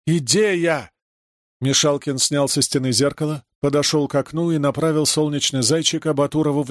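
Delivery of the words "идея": a higher, bigger shout of «Идея!»; triumphant cry of «Идея!»; louder exclamation. A narrator's reading. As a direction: repeat «Идея!» with more force. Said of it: "Ты чего орёшь".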